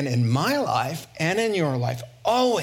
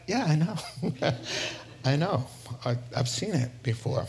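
understated, knowing reply; mildly unimpressed; 5 dB quieter than usual. Acted. Jesus answering an excited disciple, mildly unimpressed.

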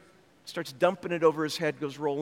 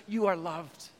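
tender voice of God; 3 semitones lower than usual. Acted. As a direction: speak gently as a father to a child. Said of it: "And God says".

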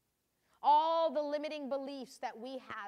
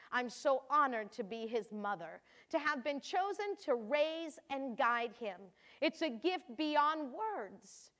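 a lightly voiced proud, wondering mother; mother honored to have raised her son; Mary, proud mother. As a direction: read Mary's final entry with awe. Mary's final diary entry.

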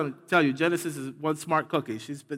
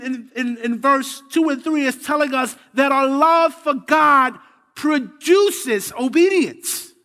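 higher, louder sermon delivery building in force; preaching; 7 semitones higher, 5 dB louder than usual. Acted. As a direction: preach it with rising conviction. Preaching the verse to congregation.

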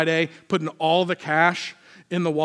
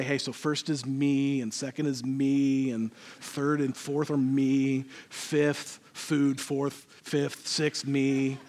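hushed honest confession; 4 semitones lower, 6 dB quieter, slower than usual. Acted. Acted honest answer, hushed.

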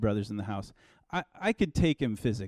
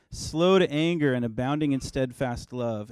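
scripture read evenly. Shown as a demonstration. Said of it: "For I knew that you are".

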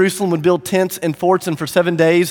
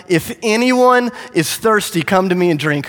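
understated shout to a crowd; raised-voice proclamation; 3 semitones higher than usual. Acted. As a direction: call out the invitation, stretching the opening. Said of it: "in a loud voice he shouted".

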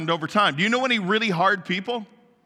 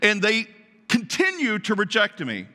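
pleading God; 4 semitones higher than usual. Acted. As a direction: cry out as God who is worn out from trying. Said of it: "he's like".

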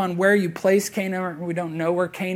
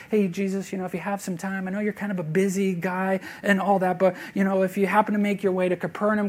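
mock casual ask. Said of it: "There's nothing casual about asking".

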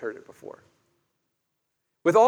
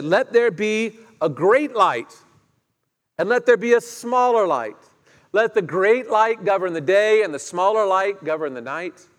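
voice of God; 3 semitones higher, 5 dB louder than usual. Acted. God's command voiced.

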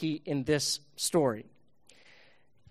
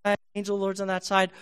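donkey voice; 2 semitones higher, faster than usual. Acted. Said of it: "the donkey looks in and goes".

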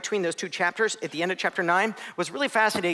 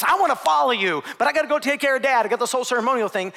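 earnest plea; 7 semitones higher, 5 dB louder than usual. Acted. Grieving man pleading with Jesus.

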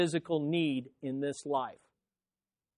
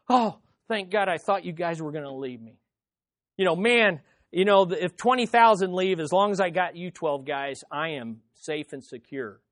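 mock relieved Jesus; 4 dB louder than usual. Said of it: "notice what Jesus says".

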